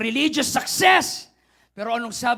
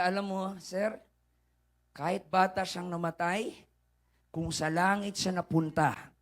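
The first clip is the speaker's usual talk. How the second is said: gentle consolation; 5 semitones lower, 3 dB quieter than usual. Retold or imitated. Pastor consoling the weeping driver.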